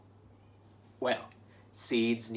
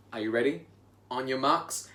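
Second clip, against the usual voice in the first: usual speaking voice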